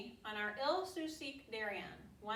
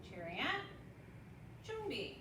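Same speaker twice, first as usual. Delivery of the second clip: sharp martial arts commands; 6 dB quieter than usual. Acted. Taekwondo form count commands.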